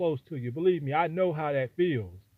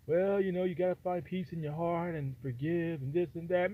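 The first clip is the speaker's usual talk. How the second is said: softer, imitating forgiving Christians; mild pious mimicry; 8 dB quieter than usual. Christians urging the brother to forgive, softly imitated. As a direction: play down your voice as a mild well-wisher.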